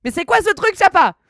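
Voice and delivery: high, loud cry of disbelief; incredulous outcry. Real, not acted. Streamer scolding a moderator for spamming characters, incredulous. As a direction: call out the culprit in amused outrage. Calls out moderator over chat prank.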